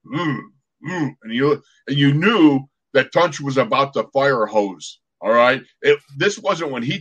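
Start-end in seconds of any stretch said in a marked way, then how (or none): 0.1-1.2 short, soft closed-mouth "mm" of nausea; imitated queasy groan. Teammate about to throw up at practice, imitated queasy groan. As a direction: groan like your stomach is turning. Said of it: "all of a sudden you hear this".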